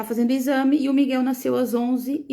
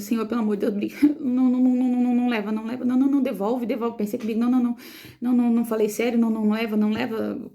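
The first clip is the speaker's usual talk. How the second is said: mais alto, repetindo não com urgência; súplica desesperada; faster than usual. Retold or imitated. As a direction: implore a Deus que devolva o filho. (mãe suplica a Deus que não leve o filho, desesperada)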